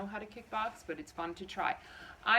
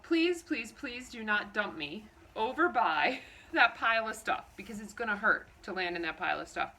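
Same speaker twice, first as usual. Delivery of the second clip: desperate inner plea; 2 semitones higher, 5 dB louder than usual. Retold or imitated. To herself while riding the bolting horse, frantic pleading. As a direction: beg the horse not to dump you there. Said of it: "I thought to myself".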